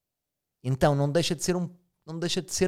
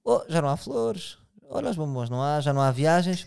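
queixa de parceiro; 2 semitones higher than usual. Acted. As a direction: play a partner lamenting lost attentions, lightly. Parceiro queixoso numa relação encenada. (queixa encenada de parceiro)

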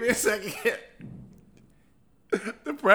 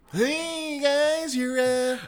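elf voice; 7 semitones higher, much slower than usual. Acted. Keeps the elf voice going.

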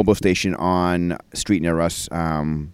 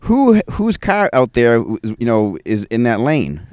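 raised voice, calling out to strangers; loud call across the store; 4 semitones higher, 4 dB louder, slower than usual. Retold or imitated. Asking the store crowd whose car blocks him, called out loudly. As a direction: call out loudly to find the owner. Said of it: "a little loudly".

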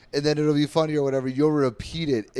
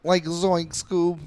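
very slow, stretched out; light Shaggy voice; Shaggy impression; 4 semitones higher, much slower than usual. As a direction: drawl it like Shaggy. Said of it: "Scooby-Doo laugh".

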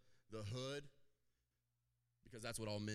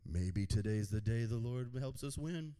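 louder rallying line; rally the armor bearer; firm hopeful call; bold encouragement; 2 semitones lower, 11 dB louder than usual. Retold or imitated. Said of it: "he goes".

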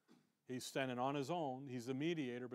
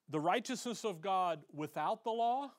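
mild astonishment, rising at the end; incredulous question; 3 semitones higher, 3 dB louder than usual. Acted. Preacher questioning a startling verse, incredulous. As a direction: repeat it as a disbelieving question.

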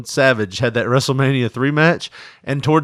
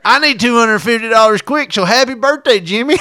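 mock cameo voice; 8 semitones higher, 4 dB louder than usual.

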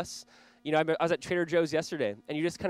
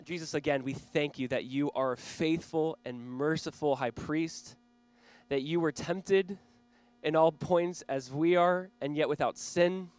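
earnest prayer. Real, not acted. Pastor praying before the sermon, earnest prayer voice. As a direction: pray it sincerely over the room.

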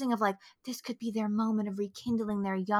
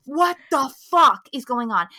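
louder, slow angry demand; angry disbelief; 7 dB louder than usual. Retold or imitated. Host relives watching the scene, angry and baffled. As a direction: lean slowly on each furious word. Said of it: "Oh, bitch, I was angry".

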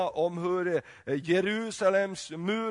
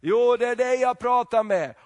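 higher and louder, insistent angel; angel's insistence; 5 semitones higher, 6 dB louder than usual. Acted. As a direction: press the point like a herald. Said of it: "kommer ängel och säger". (ängelns eftertryck)

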